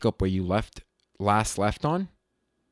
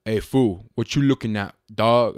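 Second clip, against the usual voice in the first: lightly voiced tough cholo, last word punched; half-successful impression of a tough guy; 3 dB louder than usual. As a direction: attempt a confrontational homeboy. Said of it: "you get the really tough guy".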